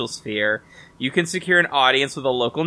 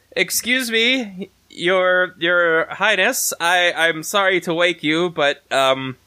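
a touch higher and slow, timid courtly request; nervous formal address; 5 semitones higher than usual. Acted. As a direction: politely call up to the sleeping queen. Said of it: "I yell up to the giant spider woman".

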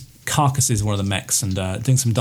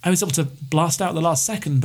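a touch higher, eager rescued pilot; lightly voiced pilot; 4 semitones higher than usual. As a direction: talk fast and relieved, a bit high. GM voices stranded pilot Rory.

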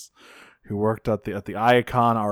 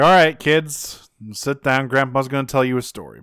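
grandpa storyteller. Retold or imitated. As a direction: settle the kids in like a grandpa. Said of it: "Ratchet's like".

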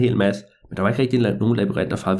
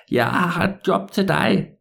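put-on higher, slow old man giving orders; a crafty old man with a job for the boy; sly old man; 4 semitones higher, slower than usual.

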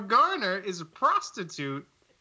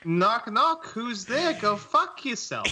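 lightly voiced Northeast accent, a touch higher; Northeast accent joke; 3 semitones higher, slower than usual. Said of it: "It's me, Tom Hanks".

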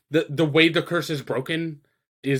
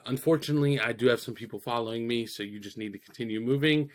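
lightly voiced smooth-talker, lower on most phrases; suave; 3 semitones lower than usual. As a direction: retell it with understated suave cool. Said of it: "suave fucking".

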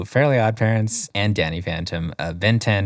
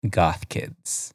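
whisper; 5 semitones lower, 7 dB quieter than usual. Real, not acted. Whispered punchline about goths.

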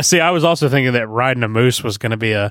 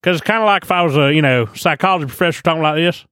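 higher-pitched professor impression with Canadian accent; Jordan Peterson; 4 semitones higher than usual. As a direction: do a mock psychology professor, pitched up. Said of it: "That's kinda how he sounds".

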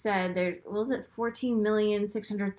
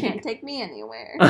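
laughing. Real, not acted. Self-mocking amid laughter.

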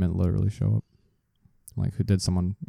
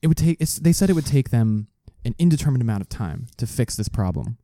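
conspiracy theorist; 4 semitones higher than usual. Pretend. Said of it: "Can you do the conspiracy theory voice?".

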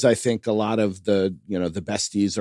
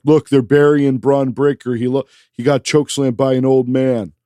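worked up; 3 semitones higher, 5 dB louder than usual. Real, not acted. Ranting about wrestler burial.

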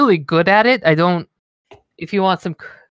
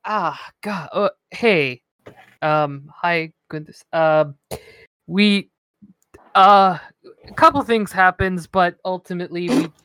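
halting, lightly lowered nervous voice; put-on awkward voice; 3 semitones lower than usual. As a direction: clear your throat and fumble for words, pitched down. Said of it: "what's with that voice you're doing".

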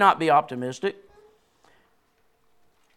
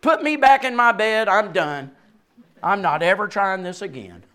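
mock quitting child; 3 semitones higher, 4 dB louder than usual. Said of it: "they'd just say".

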